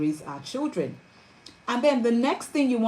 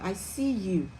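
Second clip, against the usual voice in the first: tender reassurance; 5 dB quieter than usual. Shown as a demonstration. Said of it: "you're telling them".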